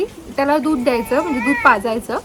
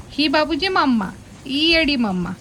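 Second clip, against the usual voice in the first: ordinary talk, nothing marked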